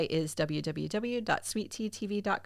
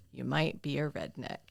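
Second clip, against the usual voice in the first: put-on Southern accent punchline; 4 semitones lower, 6 dB quieter than usual. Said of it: "do a Southern accent".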